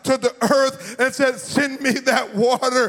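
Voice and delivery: rising, sung preacher cadence; full-force preaching. Acted. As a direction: preach it, let the words ring out. Preacher builds to climax.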